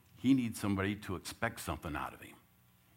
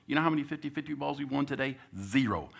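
higher, louder, fast fired-up coach; coach firing up team; 8 semitones higher, 5 dB louder than usual. Retold or imitated. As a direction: press them with a question. Coach scolding team in huddle.

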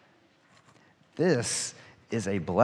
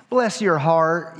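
slow, higher, polite Southern "Bless your heart"; sincere Southern blessing; 4 semitones higher, 3 dB louder, slower than usual. Retold or imitated. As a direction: mimic a kindly Southern lady. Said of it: "They're very polite".

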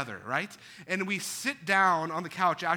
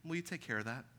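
wife asking; 5 semitones lower, 11 dB quieter, faster than usual. Retold or imitated. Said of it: "looks at me and goes".

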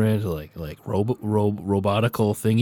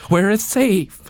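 slow, higher and louder, unsettling; creepy urgent plea; 8 semitones higher, 4 dB louder, much slower than usual. Acted. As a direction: drag out each word while shaking him. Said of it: "slowly jittery shake his face".

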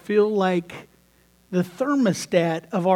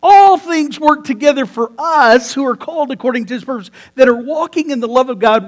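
forceful restatement; 3 semitones higher, 8 dB louder than usual. Real, not acted. Preacher restates scripture with force.

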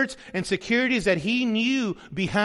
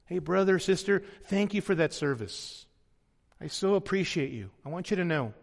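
grateful thanks; 2 semitones lower, 4 dB quieter than usual. Pretend. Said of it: "What about in the church?".

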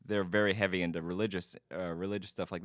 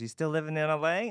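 higher-pitched, lightly voiced aunt; aunt's question; 7 semitones higher than usual. Aunt asking nephew about living in L A, lightly imitated. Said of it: "an aunt who".

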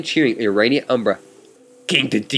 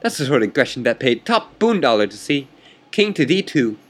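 smug chess rival; 3 semitones higher than usual. Acted. Chess rival taunting the player, lightly voiced and smug. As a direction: needle your opponent with mild mock arrogance.

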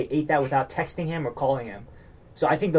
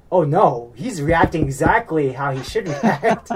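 amused disbelief; 6 dB louder, slower than usual. Retold or imitated. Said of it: "I was like".

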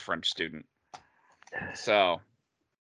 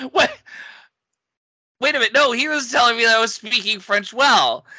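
indignant surprise; 11 semitones higher, 4 dB louder than usual. Retold or imitated. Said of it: "And I'm like".

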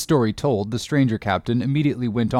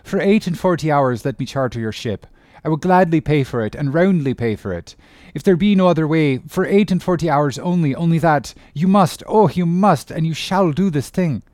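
higher, louder frantic begging; desperate pleading captain; 5 semitones higher, 4 dB louder than usual. Acted. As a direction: plead for your lost son.

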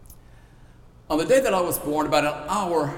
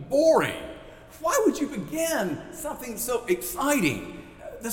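mock boredom; 9 semitones higher than usual. Preacher mocking how the genealogy feels to listeners, playful. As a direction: toss it off like a bored kid. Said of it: "mocking the list of names".

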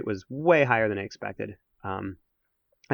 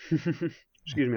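laughing with mouth full; 5 semitones higher, much slower than usual. Real, not acted. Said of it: "I'm eating a piece of chocolate here".

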